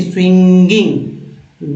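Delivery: स्विंगिंग stretched slowly, swing-ging; drawn-out pronunciation. Shown as a demonstration. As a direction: sound out स्विंगिंग slowly, holding the ng. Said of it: "ये देखिए". (स्विंगिंग को धीरे, खींचकर बोलना)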